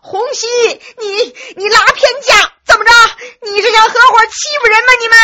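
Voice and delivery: high, tearful, enraged shouting; yelling at full throat. A narrator's reading. Enraged boy accuses Hongxi of taking sides, high strained yell. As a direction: scream the accusation, nearly crying. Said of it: "扯着嗓门喊着".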